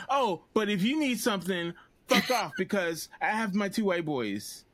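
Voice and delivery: high, snotty mock brat; lightly voiced bratty teen; mocking spoiled girl. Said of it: "my impression of Never Have I Ever".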